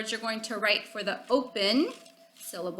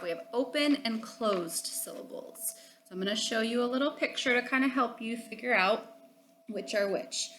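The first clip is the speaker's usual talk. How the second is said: whisper; 5 dB quieter than usual. Real, not acted. Teacher suddenly whispers to class.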